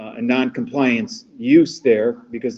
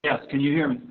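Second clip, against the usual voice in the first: choppy, breaking-up phone line; call dropping out; 2 semitones higher, 4 dB quieter, faster than usual. Real, not acted. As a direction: voice cutting in and out on a call. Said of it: "You're breaking up a little bit".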